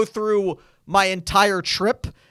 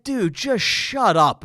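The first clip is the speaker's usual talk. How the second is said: slow, annoyed retort at usual volume; much slower than usual. Retold or imitated. Podcaster recalling his reaction to screaming passenger, annoyed. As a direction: drag the words out in mild exasperation. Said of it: "like, I was annoyed".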